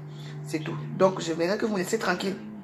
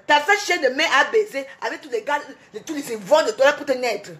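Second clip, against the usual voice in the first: furious rant; 3 semitones higher than usual. Real, not acted. Streamer lashing out at trolls on her live, furious shout. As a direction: let the rage pour out, shouting. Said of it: "c'est moi qui parle fort".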